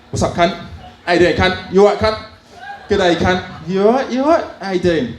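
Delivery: a hint of an Australian mate saying hello; Australian greeting. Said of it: "they greet you in a very weird way".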